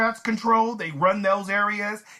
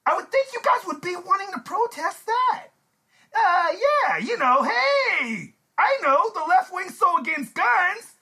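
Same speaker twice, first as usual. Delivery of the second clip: fake crying; 11 semitones higher than usual. Mock crying rant.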